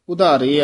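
ਉਧਾਰੇ with the ਊੜਾ vowel at the start; correct vowel. Shown as a demonstration. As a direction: open ਉਧਾਰੇ with the ਊੜਾ sound. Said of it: "ਊੜਾ ਆ". (ਉਧਾਰੇ ਦਾ ਸਹੀ ਉਚਾਰਨ)

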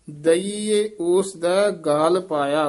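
ਗਾਲ with an easy single ਲ; don't press the ਲ in ਗਾਲ; loose ਗਾਲ. Shown as a demonstration. Teacher showing students ਗਾਲ spoken loosely. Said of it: "ਗਾਲ ਪਦ ਜਿਹੜਾ ਪੋਲਾ ਬੋਲਣਾ".

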